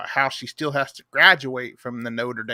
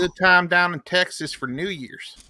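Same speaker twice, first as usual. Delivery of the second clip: put-on Texas accent; 3 semitones higher, 3 dB louder than usual. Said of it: "in that voice".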